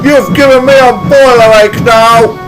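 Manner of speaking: loud cross yell; yelling Spencer. A narrator's reading. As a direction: yell it at her. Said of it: "he yelled".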